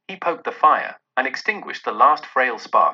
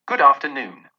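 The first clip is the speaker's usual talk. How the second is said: curt dismissal; 6 dB louder than usual. Acted. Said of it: "said Scrooge".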